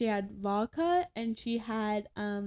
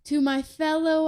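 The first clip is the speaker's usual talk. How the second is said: put-on drunken speechmaker; 5 semitones higher, 8 dB louder than usual. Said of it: "And then I hear".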